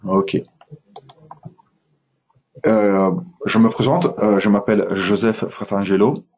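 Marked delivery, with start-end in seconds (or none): none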